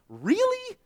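incredulous really. Real, not acted. Mocking flowery prayer.

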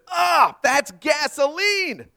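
high-pitched, drawn-out comic outcry; mock scream. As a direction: cry out high as if horrified by the taste. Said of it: "screamed at the top of his lungs".

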